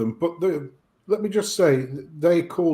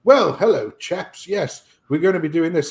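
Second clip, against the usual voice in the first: mild put-on posh English, Well, hello, chaps; lightly mocking French Canadians acting English. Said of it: "supposed to be English people speaking".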